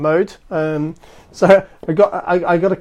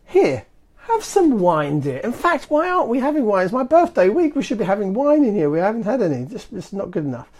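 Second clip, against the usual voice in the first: mock doting husband; 4 semitones higher than usual. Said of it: "the first one here on the card says".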